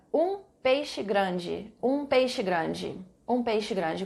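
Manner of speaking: "um peixe grande" said very slowly, word by word; slow dictation. Shown as a demonstration. Teacher dictating the phrase to students, very slow. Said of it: "Mais um aqui".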